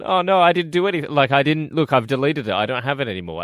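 hacker's panicky denial. Retold or imitated. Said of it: "And then he's gone".

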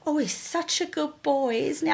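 high, soft, fond mock voice; imitating a doting bloke. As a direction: coo it like an easygoing stranger. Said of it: "He said to me".

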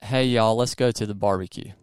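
easy Southern US accent; natural Southern American accent, for copying. Shown as a demonstration. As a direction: demonstrate your own Southern twang. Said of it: "you say this in my accent".

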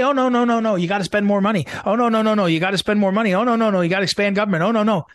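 lightly lampoon a fussy bureaucrat crying no no no. Retold or imitated. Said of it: "coming from the forces that say".

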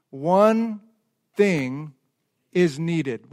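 "One", "Thing", "is Needed" split by pauses, low; word by word. Shown as a demonstration. Pastor spells out subtitle with pauses. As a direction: set each word apart. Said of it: "here's the subtitle".

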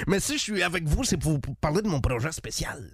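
lightly voiced cheerful old man from the country; a chatty old-timer hamming it up for the radio crew; a hint of a jolly old man; Pepper Brown. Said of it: "c'est moi, Pepper Brown, sympathique vieillard".

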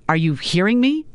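demanding. Acted. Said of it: "Maddie's mother demanded".

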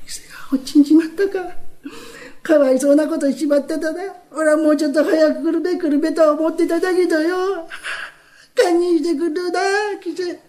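声を上げて半泣きで嘆く; 悔やみながら泣き声で; tearful. Acted. 田舎の旦那が花魁の死を嘆く. (花魁の死を知った田舎の旦那が涙声で)

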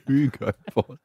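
"Ugo Boss" said with no H; dropped H. Retold or imitated. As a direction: drop the H in "Ugo". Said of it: "doesn't do his H's".

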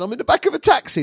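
hammed-up frightened answer to the operator; panicked caller. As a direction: blurt it out in mock panic. Acted panicked emergency call.

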